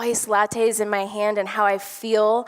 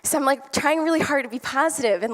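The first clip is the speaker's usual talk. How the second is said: ordinary talk, nothing marked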